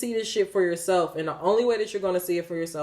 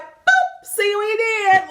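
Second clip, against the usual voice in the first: high, loud, gleeful squeal; playful mock send-off; 7 dB louder, slower than usual. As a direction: toss it off high and loud, mocking. Acting out God dropping people off.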